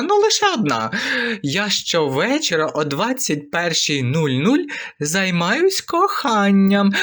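high, coy female voice, slowing on "коханням"; coy woman. Acted. Wife confiding her evening habit, high and coy. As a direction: play a flirty wife confessing.

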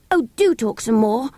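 eager cry. Acted. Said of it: "Robert cried".

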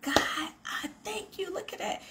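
breathless whispered thanks, pitched high; hushed awed whisper. Retold or imitated. Thanking God in a hushed, high awed whisper. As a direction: whisper it like a private prayer in awe. Retold grateful prayer to God.

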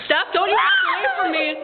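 high laughing mock shout; heated family shouting. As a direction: yell after her, half laughing. Mock scolding friend walking away.

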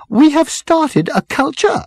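high, slow, emphatic announcement; strident marketing girl. A narrator's reading. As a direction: declare it stridently. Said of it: "the girl with the strident voice".

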